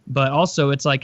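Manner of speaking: ordinary talk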